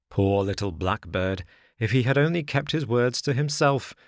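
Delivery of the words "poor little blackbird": plain reading voice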